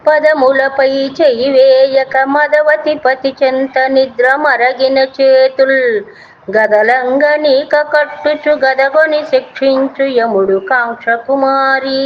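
slow, sing-song chanting of a classical verse; slow chanted Telugu poem; poem recitation. Acted. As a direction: intone the padyam slowly and evenly, like a recital.

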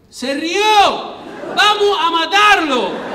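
high, loud, drawn-out rallying yell; rally the mob, hammed-up; imitated thug's war cry; mock enraged fan shout. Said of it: "yo escucho que uno dice".

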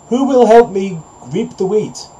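high-pitched storybook hen; little hen's high appeal for help; little hen calling. A narrator's reading. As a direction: call out to the neighbours in a high voice. Hen calls her neighbours for help.

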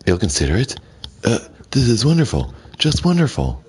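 overjoyed. Acted. Vincent bursting with joy at Catherine's answer, excited high voice. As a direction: burst out with delight.

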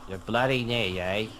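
mock heavy British game-character accent. Mocking the game's British voices for a friend, overdone British accent. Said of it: "The accent is so, like, heavy".

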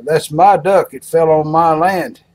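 hammed-up territorial objection; indignant farmer. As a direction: stake the claim with mock indignation. Farmer claims duck in joke.

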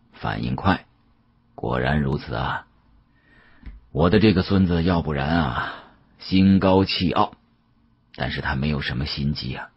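put-on an elderly dealer musing with regret; a hint of a weary old man; old Yao's voice. Old Yao praises narrator.

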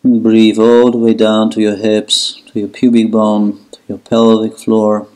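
steady meditation guide with long pauses; guided relaxation. Acted. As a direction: lead them into letting go, unhurried, even-toned. Guides breathing and relaxation in child's pose.

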